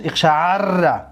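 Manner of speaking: اقشعر said slowly with a held, rolled double r; merged double r. Shown as a demonstration. Teacher showing the result after moving the vowel, merged double r in اقشعر. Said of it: "ره را حرکت چه در عین دادیم".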